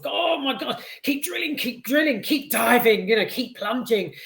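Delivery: high, eager urging at the screen; egging the crew on from the seat; excited cinema-goer. Retold or imitated. Film fan urging the crew on from his seat, high and eager. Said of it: "I'm in the cinema, sort of".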